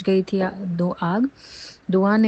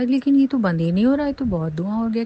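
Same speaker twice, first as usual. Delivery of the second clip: higher, sudden alarm at the smoke; surprised alarm; 5 semitones higher than usual. Real, not acted. Noticing the smoke won't stop, startled and rising. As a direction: catch yourself startled, voice jumping up.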